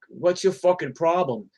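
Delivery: retold confrontation, a touch aggressive; annoyed challenge. Cyclist confronting a tailgating driver, annoyed challenge.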